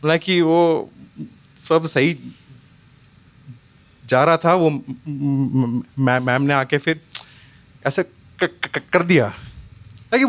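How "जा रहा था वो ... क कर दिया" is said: stammering. Retold or imitated. Boy stammering to dad.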